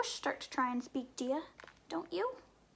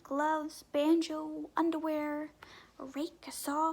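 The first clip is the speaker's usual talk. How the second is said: ordinary delivery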